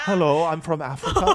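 put-on South African accent. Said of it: "this is South African".

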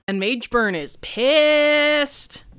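"pissed" drawn out slow and high; stress on pissed. Acted. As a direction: lean hard into "pissed", slowly. GM stressing villain's rage.

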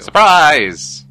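loud, high surprise shout; spring it on him; excited. Acted. Announcing surprise landing.

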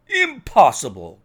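loud, disbelieving exclamation; incredulous cry. A narrator's reading. Inspector rejects Holmes's verdict of murder, incredulous cry. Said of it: "cried the inspector".

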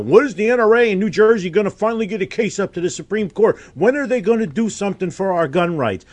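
fast whiny mock quote; mocking emailer. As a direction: rattle it off like a nagging fan. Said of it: "one more mofo sends me an email".

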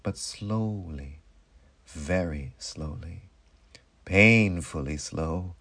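low, drawn-out words with space between; painfully slow. A narrator's reading. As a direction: let each phrase creep out slowly. Numbness recedes painfully slowly.

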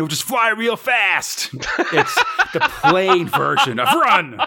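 laughing. Real, not acted. Joking punchline.

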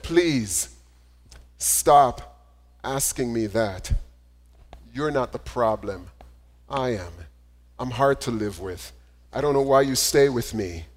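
hint of a wife speaking through tears; tearful wife, lightly voiced. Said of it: "began crying".

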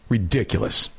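ordinary talk, nothing marked

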